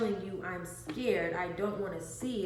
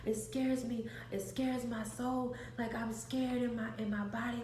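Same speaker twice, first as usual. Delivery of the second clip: higher-pitched imitation of a frightened child; retold freaking out; 4 semitones higher than usual. Frightened child telling the babysitter, mildly freaking out. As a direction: plead as a scared kid, mildly acted. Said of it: "and I'm freaking out".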